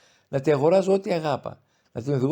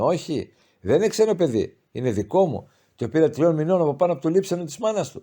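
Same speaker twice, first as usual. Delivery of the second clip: loud, raised protest; mother exclaiming; 5 semitones higher, 5 dB louder than usual. A narrator's reading. Mother insists to her son the girl is hers, loudly. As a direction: insist with force she is mine. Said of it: "ανεφώνησε η μήτρη".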